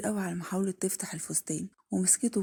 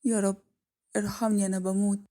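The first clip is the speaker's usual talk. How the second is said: screaming; 4 dB louder than usual. Acted. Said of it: "وفضلت تصرخ جامد قوي".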